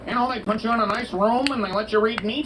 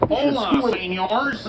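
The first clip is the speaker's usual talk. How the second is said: put-on Chicano accent; 3 semitones higher, slower than usual. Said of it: "Can you do a Chicano accent?".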